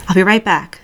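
lightly voiced calm man; steady, easy reassurance; the speaker, calm and comforting. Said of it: "clear and deep and comforting".

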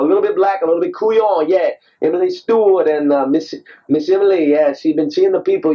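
rambling stab at a Cajun accent; attempted Cajun accent. Shown as a demonstration. Actor practising for a play, attempted Cajun accent. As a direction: put on a loose, uncertain Cajun accent. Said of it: "Trying to talk like a Cajun".

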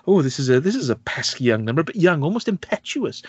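hammed-up villain, lightly imitated; over the top. Villain sipping wine while hostages panic, hammed up. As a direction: mildly ham it up as a smug villain. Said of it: "It's just so over the top".

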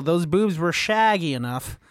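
hint of a Scottish accent on "shaggy"; half-hearted Scottish film-star accent; Sean Connery. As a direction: attempt a Scottish slur on "shaggy". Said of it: "I tried to say it with a Sean Connery accent".

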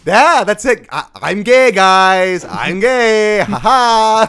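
loud, high, hammed-up bluster; fake joking confession. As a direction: shout it as if it's all a big joke. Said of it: "making it a big joke".

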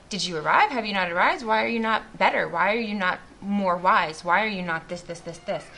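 pressing, demanding questions; mock interrogation. Imagined God judging a believer's failings, mock-demanding. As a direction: fire off accusations, tapering away at the end.

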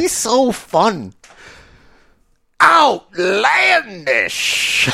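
drawn-out, high and delighted; gushing excitement. Real, not acted. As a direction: swoon over your favorite wrestler. Gushing over favorite wrestler.

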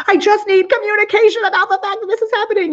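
high, hammed-up stressed version of herself; mock stressed self. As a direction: replay her own frazzled demand. Quoting herself to her husband.

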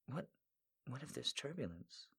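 soft, fearful near-whisper; 1 nervous whisper. Acted. Heroine nervously asking the pilot, near-whisper. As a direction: hush it like you're scared to ask.

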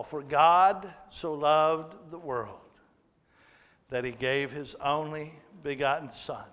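slow, solemn recital of the verse; solemn scripture reading. Shown as a demonstration. Pastor reciting John 3:16 to the church, slow and solemn. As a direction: read the verse with reverence. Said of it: "the greatest verse".

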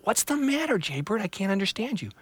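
put-on high, small childlike voice for the tree; a young tree, puzzled and worried; little tree voice. Little Tree puzzled by squawking Jaybird, high voice.

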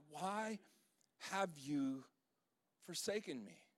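soft, drawn-out anguish with long pauses; quiet desperation. Shown as a demonstration. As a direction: let each word fall away in pain. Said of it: "the urgency and the pain in this".

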